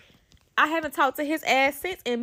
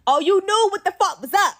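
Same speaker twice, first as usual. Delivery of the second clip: high, loud, gleeful hype; hyped exclamation; 8 semitones higher, 6 dB louder than usual. Real, not acted. Storyteller at the booming car's arrival, hyped. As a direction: hype it up, voice jumping high and louder.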